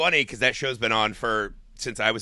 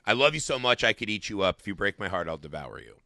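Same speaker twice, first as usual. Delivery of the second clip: loving threat, sinking low and soft; understated motherly warning, fading down; quiet threat; 4 semitones lower than usual. Retold or imitated. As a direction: start tenderly, drop to a soft, low menace. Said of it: "it's this kind of threat".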